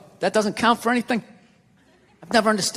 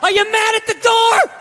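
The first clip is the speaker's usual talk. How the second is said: riled-up dog; 10 semitones higher than usual. Retold or imitated. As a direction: work yourself up as a loyal dog. Dog getting riled up for owner.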